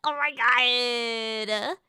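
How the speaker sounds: mock gushing American, words stretched out; hammed-up slow swoon over foreign accents; cringe American. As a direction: imitate an awestruck American tourist, drawling the ends. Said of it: "one of those cringe Americans that goes".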